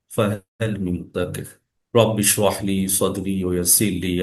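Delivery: measured devotional Arabic recitation; opening prayer recitation. Acted. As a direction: recite the opening duas calmly. (ক্লাসের শুরুতে শান্ত দোয়া পাঠ)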